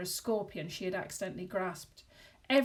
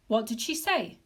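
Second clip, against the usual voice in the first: burbled; 3 semitones higher, 6 dB louder than usual. A narrator's reading. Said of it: "Mister Warden burbled".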